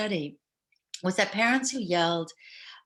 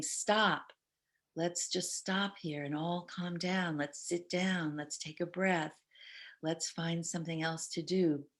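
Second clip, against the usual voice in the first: calm soothing; 7 dB quieter than usual. Shown as a demonstration. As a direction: settle everyone down gently. Modeling calming family down.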